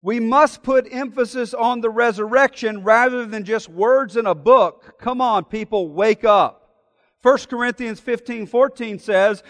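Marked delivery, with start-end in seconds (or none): 0.0-6.6 a loud, mocking read of a scolding letter; lightly hammed-up indignant lecturing; angry letter writer. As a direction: read the letter like a hectoring critic. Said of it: "the angry letter said this".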